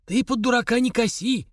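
put-on a gruff major snapping at a drunk; rough rebuke. A narrator's reading. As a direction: cut him off roughly. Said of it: "грубо осадил его Дудуев".

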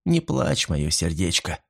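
soothing. Acted. Paul comforts crying Sylvia.

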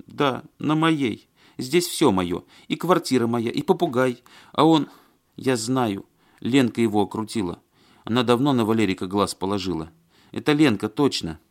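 aggrieved woman, high and insistent; Маня. A narrator's reading. Woman blaming Ленка for taking Валерик, indignant.

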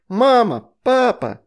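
loud high shout; yelling for parents. A narrator's reading. Astrid shielding her sister, yelling for help. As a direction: scream for mom and dad. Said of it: "заорала".

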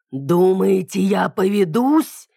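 a whispered snarl of a cornered beast; dragon growl. A narrator's reading. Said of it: "прорычала я".

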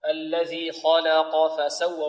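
slow recitation, heavy kha and qaf, light lam in "خلق"; "خلق" as khaw-la-qaw, measured and drawn out. Shown as a demonstration. Teacher models the verse, slow, heavy-light-heavy "خلق". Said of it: "فنفخم الخاء ونرقق اللام ونفخم القاف".

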